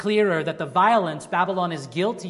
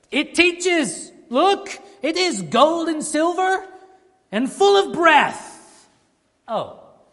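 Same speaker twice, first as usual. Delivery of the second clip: play-acted taunting, sing-song, pitched-up sarcastic tone; 10 semitones higher, 5 dB louder than usual. Paraphrasing a verse of Habakkuk to capture its tone, put-on mocking tone. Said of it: "To really capture the mocking tone of Habakkuk".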